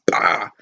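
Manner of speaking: low mock impact noise; imitated blow. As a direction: voice the pistol-whip hit. Imitates the pistol whip blow.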